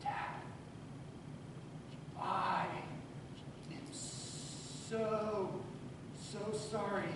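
put-on a crying boy begging forgiveness; tearful apology. Crying teenage son apologizing to his dad, hushed and tearful.

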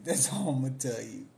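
laughing through a teasing refusal; giggling, coy refusal to spill gossip; laughing repeat. Real, not acted.

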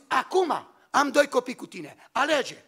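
wife forcing a choice on him, sharp and demanding; wife's ultimatum. Retold or imitated. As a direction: hand him the ultimatum, hard on the final word. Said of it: "O zis".

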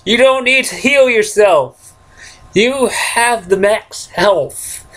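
high, pushed-up nagging tone; odd nagging voice. Pretend. Gamer scolding his game character, high mock nagging. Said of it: "Why am I talking like this?".

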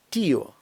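«тіо» as two syllables, stress on і; stressed split vowels. Shown as a demonstration. Teacher models Spanish word for uncle, diphthong split. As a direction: hold the і of «тіо», then a separate о. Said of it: "наголос ставиться на закриту".

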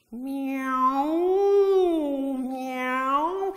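playful kitten miaow; cat meow. Shown as a demonstration. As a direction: mew like a friendly cat. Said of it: "You can play with the nasal".

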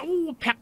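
high, sharp zap; shock sound. Retold or imitated. Describing the shock from the master, high mock zap. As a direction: mimic the jolt of electricity.

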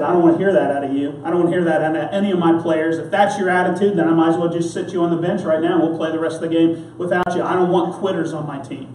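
stern coach. Retold or imitated. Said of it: "he got down in my face and real sternly".

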